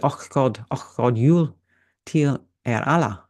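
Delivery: "Och God jul" tried with a Swedish lilt, God falling, jul rising; a fumbling go at Swedish rise and fall; clumsy Swedish accent. Shown as a demonstration. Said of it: "Very badly done".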